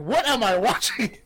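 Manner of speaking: high, incredulous exclamation; acted-out baffled outburst; mock disbelief. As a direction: ask it in amused, high-pitched disbelief. Recalls own reaction, laughing hard.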